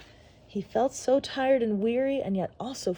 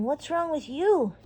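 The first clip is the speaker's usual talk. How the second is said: nervous; 6 semitones higher, 3 dB louder than usual. Acted. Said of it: "the boy asked nervously".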